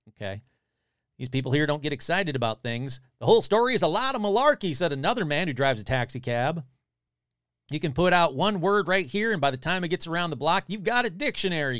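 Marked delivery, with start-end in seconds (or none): 1.2-11.8 lively read-aloud with quotes lightly acted; article read aloud. Podcaster reading a monster report to listeners, animated read-aloud. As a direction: read out an old news story with relish.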